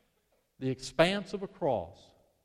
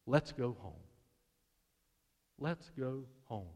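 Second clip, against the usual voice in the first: gentle whisper; 5 semitones lower, 10 dB quieter than usual. Acted. Husband whispering to his shamed wife, tender hush. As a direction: breathe it into her ear. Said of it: "he whispers in her ear".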